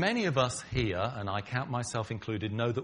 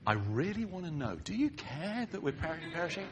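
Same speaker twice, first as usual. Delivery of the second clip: a hint of earnest curiosity, a bit higher; mock sincere question; 5 semitones higher than usual. Shown as a demonstration. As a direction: ask as if you truly want to know. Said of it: "It's not really".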